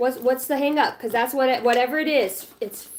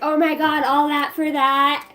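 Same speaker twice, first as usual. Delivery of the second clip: amazed disbelief; 4 semitones higher, 4 dB louder, slower than usual. Pretend. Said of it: "you're gonna be like".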